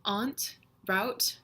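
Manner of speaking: careful citation reading, a gap after each word; word-list reading. Shown as a demonstration. Speaker reads an accent-test word list to viewers, word-list reading. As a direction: read single words one by one. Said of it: "here's the list of words".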